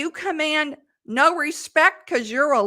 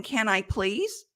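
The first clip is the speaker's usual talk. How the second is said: meek, softer pleading; bad example; 2 semitones lower, 4 dB quieter than usual. Shown as a demonstration. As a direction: ask meekly, drop the voice. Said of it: "sounds much more professional than".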